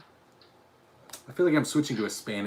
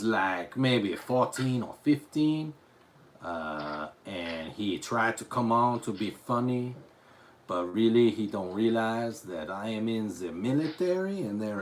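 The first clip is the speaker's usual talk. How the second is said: fake French accent. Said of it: "speaking in this outrageous accent".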